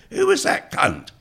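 high, loud, slow mock disdain; Francis Bacon. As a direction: imitate a scornful aside for all to hear. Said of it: "turned to his friend and said".

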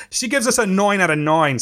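Long Island "nine" sounding like noyn, lightly done; Gary impression. Podcast host reads a listener review in a light Long Island Gary voice, with "nine" as noyn. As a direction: lean into the Long Island vowel in "nine" only. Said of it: "I'm gonna do my best, uh, Gary impression".

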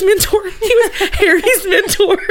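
slow, laughing correction. Real, not acted. Laughs at own slip.

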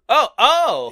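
loud, high imitated yelps of alarm; two hammed-up cries of shock; mock startled cries. Host imitating the girl falling backwards, mock startled.

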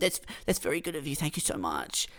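soft, fast, quietly grateful; meek thanks. Retold or imitated. Customer taking the deal, soft meek thanks. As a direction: mumble your thanks like a pushover. Meekly accepting the offer.

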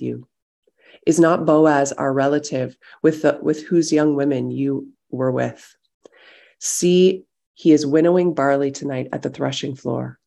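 measured reading of Ruth, steady and clear; scripture reading. Acted. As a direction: read the chapter straight through, letting it land. Reads Ruth chapter aloud.

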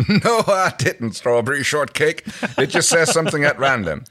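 loud, high, teasing denial; indignant protest. Acted. John denies rigging the toy to Erin, loud and indignant. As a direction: protest loudly, half amused.

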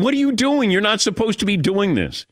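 high-pitched comic disbelief; retold indignant outburst; mock dismayed protest. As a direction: protest aloud as if caught off guard. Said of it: "I say this to her out loud".

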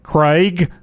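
"Craig" drawn out with a long vowel; mocked name pronunciation. Shown as a demonstration. Host objects to how "Craig" is said, stretching it out. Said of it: "we don't say things like".

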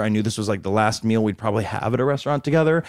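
usual speaking voice

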